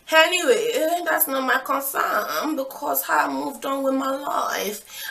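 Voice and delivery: high, loud, drawn-out singsong brush-off; breezy dismissal. Real, not acted. Storyteller brushing off gossip about her ex, airily dismissive. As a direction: stretch it out in a showy, airy lilt.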